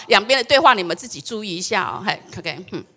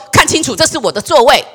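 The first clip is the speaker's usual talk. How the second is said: loud retort; 4 semitones higher, 6 dB louder than usual. Retold or imitated. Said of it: "嚷嚷着说".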